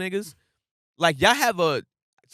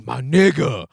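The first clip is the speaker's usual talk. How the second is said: mock drunk greeting; big clingy drunk; 4 semitones lower, 3 dB louder, slower than usual. Big drunk friend grabbing you, lightly acted lovey greeting. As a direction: play a drunk grabbing his buddy. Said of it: "always wanna grab you".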